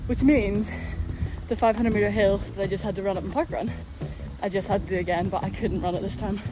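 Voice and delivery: walking uphill while talking. Real, not acted. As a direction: talk on the move, a bit breathless. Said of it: "I'm gonna have to walk while I talk".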